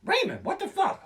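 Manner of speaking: high, startled cry at a friend; hammed-up shocked yelp; mock victim yell. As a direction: shriek it like you just got stabbed. Victim yelling at stabber.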